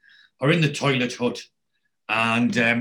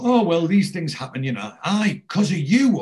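raised-pitch mock protest; imitated bickering; 5 semitones higher, 3 dB louder than usual. Workmate excusing himself and getting blamed, imitated bickering. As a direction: act out an excuse and a jibe, pitch lifted.

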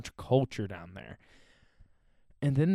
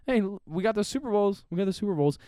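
mocking Cowboys fan; 6 semitones higher, faster than usual. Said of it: "Cowboy fans are like".

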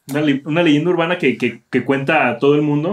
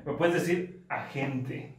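mock sultry request; 13 dB quieter, much slower than usual. Lady's request retold, laughing.

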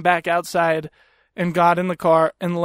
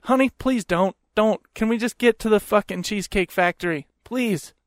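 mild, imitated weary plea; pleading husband. Husband begs wife to drop it, mildly pleading. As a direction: imitate a husband gently begging her to stop.

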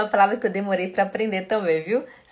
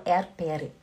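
Swiss German Erdbeere with the R sounded, Erd-beh-reh; 3 dB quieter than usual. Shown as a demonstration. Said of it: "dialeto aqui da Suíça".

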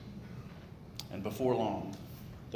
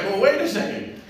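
pig voice; 12 semitones higher, 10 dB louder than usual. Acted. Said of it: "the pig's like".

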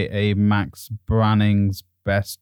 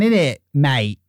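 mock London accent; 3 semitones higher, slower than usual. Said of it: "It's my London accent".

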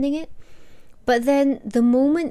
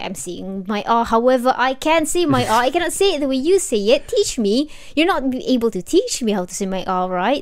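indignant protest; 4 dB louder than usual. Retold or imitated. Retold childhood protest over her R.

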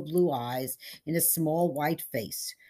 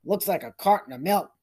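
higher, complaining whine; whining; 4 semitones higher, 6 dB louder than usual. Acted. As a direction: gripe about the parking spaces. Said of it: "whined the sheriff".

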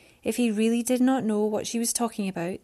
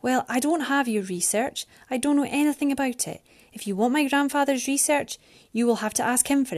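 higher, insistent woman's voice; Mariana protesting; 5 semitones higher than usual. Acted. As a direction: push back, pitch raised. Mariana protests her innocence.

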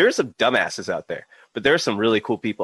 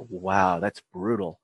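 amazed reaction; 8 semitones higher, 4 dB quieter, slower than usual. Retold or imitated. Quoting amazed Irish girl's reaction.

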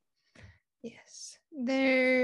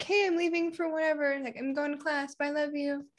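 calling out; 4 semitones higher than usual. Retold or imitated. Telling her dog goodbye on the way to class, a higher call. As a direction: call it out across the apartment. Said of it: "I always yell at her".

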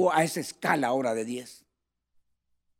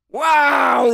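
loud, higher astonished wow; retold teacher amazed at the drawing; teacher's amazed wow; 8 semitones higher, 8 dB louder than usual. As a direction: exclaim like an impressed teacher. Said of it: "Dijo la profesora".

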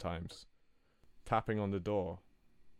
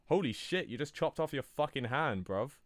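shocked cry; 5 semitones higher than usual. Acted. Coworker sees chopped-off hand.

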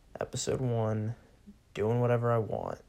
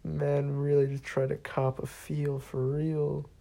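higher, slow, laughing through it; amused disbelief, giggling; 4 semitones higher than usual. Real, not acted. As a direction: still cracking up. Laughing at the story.

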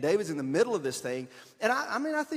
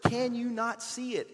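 higher, slow, mock-exasperated disbelief; incredulous judging; 8 semitones higher, 4 dB louder than usual. Readers judging David, mock incredulous. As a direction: scold David as if it's obvious. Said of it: "read David's story and think".

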